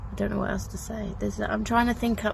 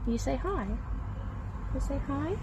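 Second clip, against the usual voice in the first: softer, higher coaxing voice; gentle coaxing; 5 semitones higher, 7 dB quieter than usual. Real, not acted. Assistant coaxing shy Doctor Mohammed to say hi, gentle coaxing. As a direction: gently prompt a shy little one.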